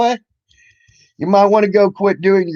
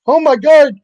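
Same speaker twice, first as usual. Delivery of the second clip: much higher and louder mock gasp; mocking girly voice; 11 semitones higher, 7 dB louder than usual. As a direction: parody her panic in a high voice. Mocking her panel reaction.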